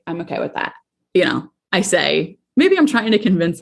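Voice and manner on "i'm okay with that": softer, reassuring herself; quiet self-reassurance. Real, not acted. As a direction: repeat it quietly to convince yourself.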